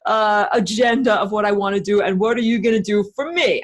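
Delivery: lightly voiced tough-guy computer talking back; a hint of streetwise tough-guy accent. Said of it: "do that tough guy accent".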